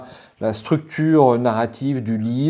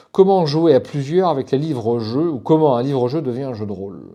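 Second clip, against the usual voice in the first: slightly raised, careful reading voice; reading aloud; 3 semitones higher than usual. Real, not acted. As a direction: read the book's text out to viewers. (lecture à voix haute)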